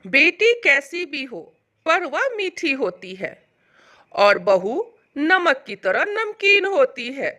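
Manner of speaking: slow, smiling mother-in-law; unhurried, pleased pronouncement. Acted. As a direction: say it slowly with a smile. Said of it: "मुस्कुराते हुए बोलती है".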